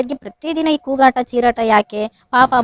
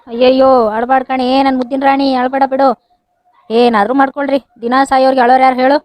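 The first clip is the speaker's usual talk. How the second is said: loud, fast and fed up; exasperated outburst; 4 dB louder than usual. Acted. Husband losing patience with his weepy wife, loud and fast. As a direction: throw up your hands and blurt it out quickly.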